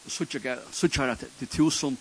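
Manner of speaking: earnest spoken prayer, rising and falling. Acted. Pastor praying over the congregation, earnest. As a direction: pray it sincerely to the Lord.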